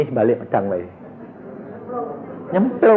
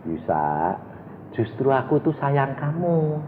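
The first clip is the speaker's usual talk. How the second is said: gentle voice of God; 6 dB quieter, slower than usual. Acted. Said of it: "Jawabannya Tuhan bilang apa?".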